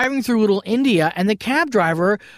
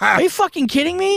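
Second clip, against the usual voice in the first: retold disbelief; 9 semitones higher than usual. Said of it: "And it's like".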